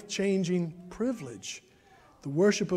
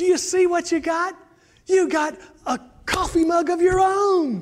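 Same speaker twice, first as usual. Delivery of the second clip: put-on thrilled little boy voice, loud, high, excited; 11 semitones higher, 8 dB louder than usual. Retelling how Nathan gave his Christmas present: imitating Nathan's loud proclaiming. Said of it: "he proclaims in a loud voice".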